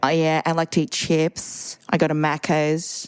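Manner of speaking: put-on slow, easygoing Australian accent; a light Aussie drawl, taken slowly. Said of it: "the easiest one is Australian".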